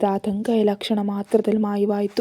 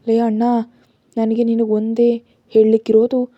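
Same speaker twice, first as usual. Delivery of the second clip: louder, teasing scold to her brother; scolding call; 6 dB louder than usual. Acted. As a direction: call him out sharply, half playful. Sister scolds brother on phone. (ಅಣ್ಣನಿಗೆ ಜೋರಾಗಿ ಗದರಿಸುವ ಧ್ವನಿ)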